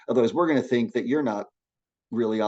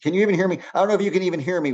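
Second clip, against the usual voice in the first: energized voice; 6 semitones higher, much faster than usual. Shown as a demonstration. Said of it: "talking like that".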